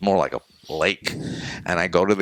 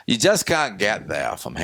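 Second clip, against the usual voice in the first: Maine saying; 4 semitones higher than usual. Retold or imitated. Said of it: "the expression in Maine is".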